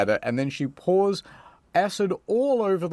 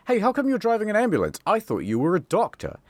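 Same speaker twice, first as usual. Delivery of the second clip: light female voice; 6 semitones higher, faster than usual. Acted. Same quote said again.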